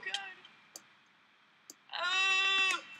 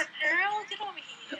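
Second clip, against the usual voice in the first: flirty voice; 7 semitones higher than usual. Pretend. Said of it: "Let me try to flirt with".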